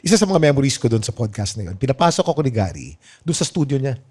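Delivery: usual speaking voice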